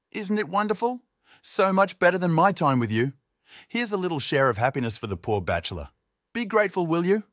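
high, gloating and cruel; mocking. A narrator's reading. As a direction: rub it in with cruel glee. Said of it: "Her laughter was mocking and cruel".

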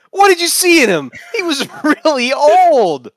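high, loud, laughing through it; can barely get the line out for laughing; disbelieving laugh. Acted. Reading Agnew's line, laughing and loud. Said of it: "Agnew said, shaking his head in disbelief".

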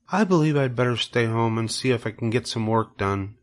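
a gentle hint of a wise spider, hesitant; Charlotte the spider. Charlotte voiced.

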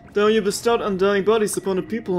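even, lightly theatrical read-aloud; formal oration. Acted. Follower proclaiming freedom from fate, formal oration.

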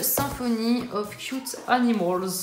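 slow, careful English with a French accent; French speaker's careful go at English; attempted English accent. Real, not acted. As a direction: pronounce the English title slowly in a French accent. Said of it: "qui est très bel accent anglais".

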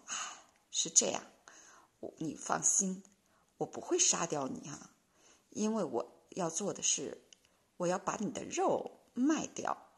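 a creepy captor calmly explaining himself; lightly acted menacing calm; sinister. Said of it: "阴森森的哈".

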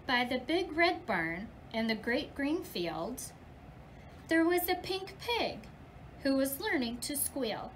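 lively storybook reading for little ones; reading to children. Acted. Teacher reading The Big Red Barn to her class, lively storybook voice. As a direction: read it like story time in class. Teacher reads picture book aloud.

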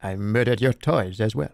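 low, put-on French accent; Spy's French accent. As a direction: play a spy with a French accent. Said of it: "That's my spy".

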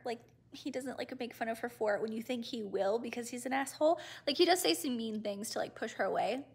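talking while chewing gum; words round a wad of gum. Real, not acted. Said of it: "Sorry, I'm chewing gum at the same time".

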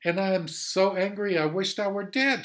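petulant anger; Jonah angry. Acted. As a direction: wail that he'd rather be dead. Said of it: "Jonah said".

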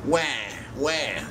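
hammed-up fake sobbing wah wah; mock crying wails. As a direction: pretend to bawl over the onion, playfully. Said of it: "See, I'm already starting to cry".

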